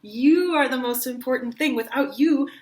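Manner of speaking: ache over each word; longing. Shown as a demonstration. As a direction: lover pleading that life is nothing without her. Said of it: "color each of those things as a different thing".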